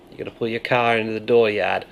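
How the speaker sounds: fast Maine accent. Shown as a demonstration. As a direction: rattle it off the Maine way. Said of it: "See how that works?".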